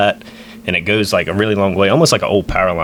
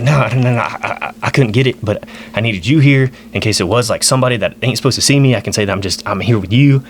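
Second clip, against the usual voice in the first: imitated flustered stammer; freaked out; 2 semitones higher than usual. Uncle justifying himself to his nephew, freaked-out stammer. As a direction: stammer through a hurried justification, mildly rattled. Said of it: "he's, like, freaked out".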